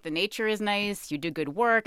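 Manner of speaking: mock-polite, a little snide; condescending pat on the back, lightly done; being a jerk. Talking down to God in the woods, mildly snide. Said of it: "I was just kind of being a jerk".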